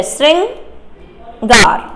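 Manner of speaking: श्रृंगार stretched very slowly, each sound held; teacher drawing out श्रृंगार; careful slow pronunciation. Shown as a demonstration. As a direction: spell out श्रृंगार syllable by syllable. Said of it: "और रिर आदेश हुआ है".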